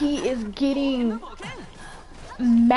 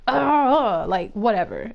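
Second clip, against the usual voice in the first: groaned ugh, then a lower whatever; dismissive; 3 semitones lower, slower than usual. Retold or imitated. Imitating the man walking away, dismissive. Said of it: "You know that dismissive hand wave".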